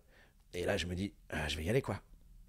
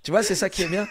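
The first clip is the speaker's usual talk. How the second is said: laughing; 10 semitones higher, 13 dB louder than usual. Real, not acted. Laughs redoing the mantis.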